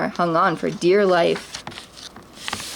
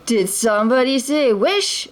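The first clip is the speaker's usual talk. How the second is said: big, higher genie voice; booming genie; 4 semitones higher than usual. A narrator's reading. The genie answers Aladdin's wish, booming playfully. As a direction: burst in playfully. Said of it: "a booming voice asked".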